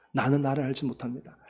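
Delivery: a hushed, humble 나는 나를 알지 못합니다; 나는 나를 알지 못합니다 said quietly to God; quiet prayer. Acted. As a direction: softly confess 나는 나를 알지 못합니다 as an inward prayer. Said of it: "통성으로 기도하겠습니다".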